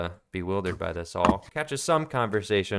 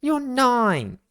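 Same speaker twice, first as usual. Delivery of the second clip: put-on very high, loud kid's taunt; mocking child; 5 dB louder than usual. Younger brother teasing his older brother, high and loud. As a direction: taunt him like a little brother.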